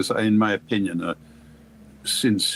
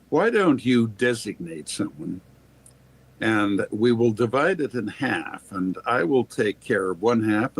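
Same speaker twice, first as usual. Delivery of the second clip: absolute entitlement. Retold or imitated. Captain Bob calmly proposes a split to the French colonel, entitled. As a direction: dictate terms as if fully entitled, unhurried. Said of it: "the way he said it, the, uh, air of absolute entitlement".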